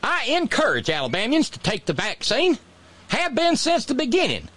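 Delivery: very high, hammed-up prim voice; mock governor. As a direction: sweetly insist like the governor. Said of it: "She said".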